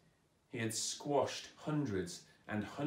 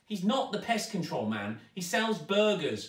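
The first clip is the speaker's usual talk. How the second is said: lightly voiced girl, raised in protest; 7 semitones higher, 4 dB louder than usual. A narrator's reading. Zoe protesting to her stepmother, a touch higher. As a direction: push back at her stepmother. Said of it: "protested Zoe".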